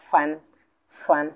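"ফান" as one separate syllable; broken-down pronunciation. Shown as a demonstration. Teacher breaks the word up to ease pronunciation, isolated syllable. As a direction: say "ফান" alone, with a pause before repeating. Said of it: "উচ্চারণের সুবিধার্থে".

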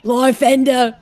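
put-on British accent. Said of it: "You make everybody sound British".

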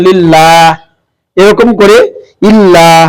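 লিল্লাহ with a light, thin ল্লা; লিল্লাহ, the ল্লা kept light; thin reading. Shown as a demonstration. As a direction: read ইল্লাহ thin, not heavy. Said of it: "পাতলা করে পড়তে হয়".

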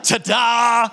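high, drawn-out ta-da; excited reveal. Acted. Friend unveils the gift car in the driveway, excited. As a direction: present it with a showy flourish.

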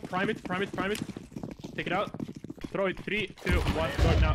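counting down the nade throw; grenade warning yell. Real, not acted. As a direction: call it out, sharp and urgent. Calling grenade timing to team.

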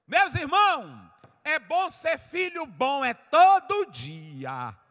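slow, high, shouted exhortation; full-force preaching. Real, not acted. Preacher urges brothers to be good children, shouting. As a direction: shout it with long stretched words to the congregation.

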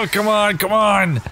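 high, loud, frantic plea; desperate urging. Real, not acted. Desperate escape from monsters.

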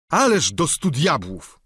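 exasperated servant's oath; Sancho. Acted. Sancho swears. (lekko zagrany giermek, wyżej)

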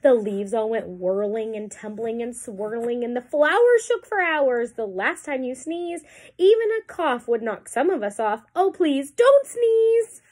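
fretful monkeys telling their woes; monkey voices. Acted.

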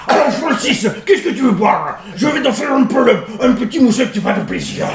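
lightly voiced Carcassonne accent, amused; a hint of a southern French host, laughing. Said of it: "c'est une autre façon de parler". (léger accent de Carcassonne, amusé)

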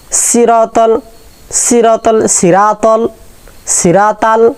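সিরাতাল with a light s and o sound; সিরাতাল, thin s; wrong hollow s. Shown as a demonstration. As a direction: say সিরাতাল loosely. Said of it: "এটা এগুলো বলবো না".

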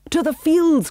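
high, loud rallying cry; urgent shouted command. A narrator's reading. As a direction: send the troop charging onward. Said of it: "cried Pongo".

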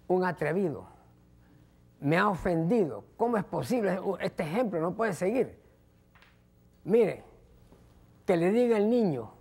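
lightly acted aggrieved woman; a touch of outraged complaint to the bench; mildly indignant wife. Woman complains to the judge about her husband, mildly indignant.

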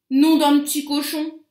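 exclamation forte et traînante du loup; s'exclamer comme un loup contrarié, en étirant les mots. A narrator's reading. (exclamation contrariée, en français «s'exclamer»)

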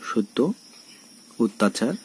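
সত্য, অত্যাচার as "shot-to, ot-tachar"; double t sound. Shown as a demonstration. Teacher gives examples, সত্য, অত্যাচার with double t. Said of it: "তয়ের উচ্চারণ হবে তয় তয়ের মতো".

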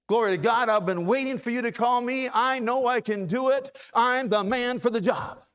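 a touch of eager volunteer; lightly voiced, overconfident Moses; mock eager Moses. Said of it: "No, that's not what he said".

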